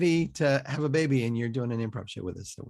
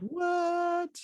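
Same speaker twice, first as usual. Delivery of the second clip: surprised; 4 dB quieter than usual. Real, not acted. Host reacts to Australia reveal.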